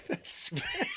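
very high shout; high-pitched startled yelp; startled shriek. Real, not acted. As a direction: squeal in fright. Frozen video reaction.

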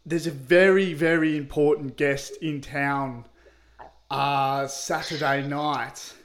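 put-on country accent. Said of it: "The accent was atrocious".

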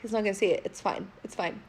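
soft, low, trailing reassurance; quiet self-reassurance. Retold or imitated. Telling herself the sent picture will go unseen, quietly reassuring. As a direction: talk yourself down under your breath.

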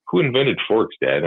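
put-on high childlike voice for the daughter; lightly mimicked young daughter asking; imitating daughter. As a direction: squeak it up like a curious kid. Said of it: "my daughter asking me".

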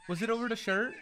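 asked through a laugh. Real, not acted. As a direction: laugh while asking. Laughing at fight video.

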